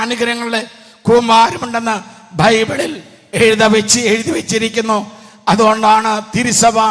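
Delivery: deliberate, forceful sermon delivery; emphatic preaching. Real, not acted. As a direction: preach it firmly, phrase by phrase.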